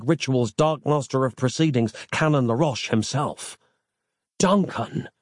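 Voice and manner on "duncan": calling a name across the battlefield; helpless, raised call; desperate call to Duncan; cried out. A narrator's reading. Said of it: "Nick cried out Duncan's name".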